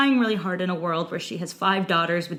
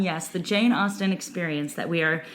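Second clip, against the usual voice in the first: sultry voice; 2 semitones lower than usual. Pretend. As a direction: purr it like a perfume ad. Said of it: "I really like the sultry voice you just moved into".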